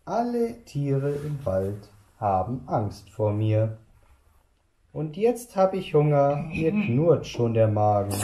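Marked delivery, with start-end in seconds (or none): 4.9-8.1 lauter und schneller, drohend; gieriger Hunger. Acted. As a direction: droh dem Grüffelo genüsslich. Maus droht dem Grüffelo. (Maus droht lauter dem Grüffelo)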